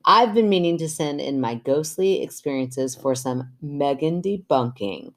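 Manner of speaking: measured podcast story reading; even-paced reader's voice; reading letter aloud. Acted. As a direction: read a listener's letter out clearly. Reads listener's letter aloud.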